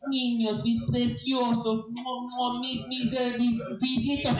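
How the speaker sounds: high, stammering protective rant; grandpa cursing in Spanish. Acted. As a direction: defend the little ones in a high, worked-up voice. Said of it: "he curses them out in Espanol".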